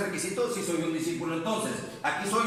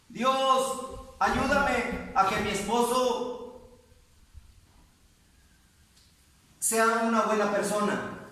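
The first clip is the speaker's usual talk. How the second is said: slow, drawn-out imitated plea, slightly raised; churchgoer's pleading prayer; 3 semitones higher, slower than usual. Sister shows how her church taught her to pray, imitated plea. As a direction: imitate a earnest prayer with long pauses. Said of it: "me han enseñado a orar así".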